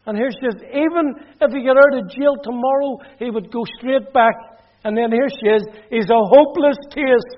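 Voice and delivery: mother tells relatives her son is lost, upset. Retold or imitated. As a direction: retell it high and upset, like she did. Mother telling relatives, still crying.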